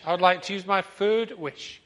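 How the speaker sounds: man's wish redone loud and normal; man's proper voice. Acted. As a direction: say it back in the man's own voice. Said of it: "The man doesn't speak like the fish".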